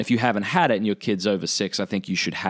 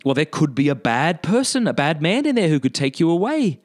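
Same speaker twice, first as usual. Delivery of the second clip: put-on higher, earnest cautionary tone to a little kid; parent warning child; 7 semitones higher than usual. Parent explaining to child why the toilet is risky, higher and earnest. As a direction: spell out the danger gently but seriously.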